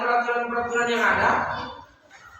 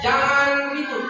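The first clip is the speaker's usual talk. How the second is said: slow, deliberate "jangan ribut", both words drawn out; teacher slowing down to state the rule clearly; slow example rule; 3 semitones higher, 4 dB louder, much slower than usual. Shown as a demonstration. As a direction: spell out "jangan ribut" slowly like a class rule.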